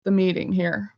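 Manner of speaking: every phrase heard twice on the call; doubled echo on the line. Real, not acted. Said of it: "I'm still echoing".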